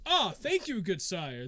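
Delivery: a hint of courtly delight; lightly voiced grateful nobleman. Nobleman gets his rapier back.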